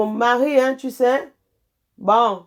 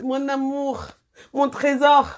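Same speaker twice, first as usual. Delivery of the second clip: doting coo; 6 semitones higher, 3 dB louder than usual. Real, not acted. Doting on son.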